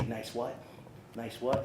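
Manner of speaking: quoting the coach in his own everyday voice, no shouting; coach's call retold plain. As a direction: recall the coach's "Nice what?" as a gentle reminder. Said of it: "you would always say".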